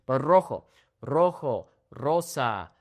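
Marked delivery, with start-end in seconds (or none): 0.2-0.6 rojo with a trilled r; rolled initial R. Shown as a demonstration. Teacher modeling the rolled R to students. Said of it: "roll that singular R". 1.0-1.7 rojo with a trilled r; rolled initial R. Shown as a demonstration. Teacher modeling the rolled R to students. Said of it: "roll that singular R".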